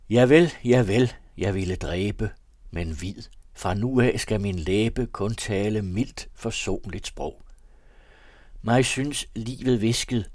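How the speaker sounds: slow, measured verse recital; reading a poem. A narrator's reading. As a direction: let each rhyme land slowly. Chapter verse read aloud. (langsom, højtidelig oplæsning af vers)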